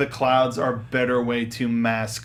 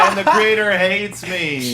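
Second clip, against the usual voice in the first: laughing lament; 5 semitones higher, 4 dB louder, slower than usual. Real, not acted.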